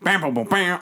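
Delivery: playful vocal fanfare; mock ending fanfare. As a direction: imitate a closing musical sting.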